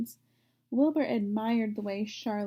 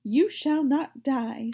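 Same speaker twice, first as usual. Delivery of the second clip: brisk; 3 semitones higher, 5 dB louder, slower than usual. Acted. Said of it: "said Charlotte briskly".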